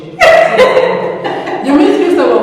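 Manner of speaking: laughing through the words. Real, not acted. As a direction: break into laughter mid-phrase. Laughs while teasing about Christabel.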